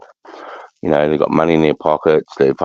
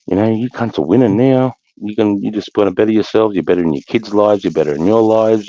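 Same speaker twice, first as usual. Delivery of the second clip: higher, lifted praise for mates doing well; excited cheer; 5 semitones higher than usual. Retold or imitated. Retelling his reaction to a mate's news, excited and higher. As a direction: cheer them on with real joy. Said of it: "And I'm like".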